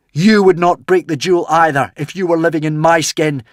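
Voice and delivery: high, loud, pleading cry; passionate shout. A narrator's reading. Hiccup to the dragon, refusing to break the jewel, passionate shout. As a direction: hurl the words at the dragon with all his heart. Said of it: "shouted Hiccup passionately to the dragon".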